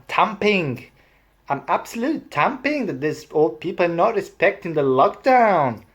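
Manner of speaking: high, lilting regional British accent; put-on British regional accent. Shown as a demonstration. Vlogger demonstrating a regional British accent with indignant, high lilt. Accent tour, Welsh demo running.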